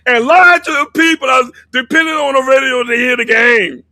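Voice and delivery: loud, heated protest; heated shout. Real, not acted. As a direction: shout the point across the argument. Heated argument about radio analyst.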